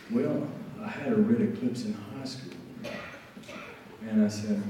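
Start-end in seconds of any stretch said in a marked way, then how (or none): 0.1-2.5 softly imitated Alabama accent; understated Alabama storyteller's accent. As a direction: deliver it quietly in an Alabama accent. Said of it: "do my best Alabama accent".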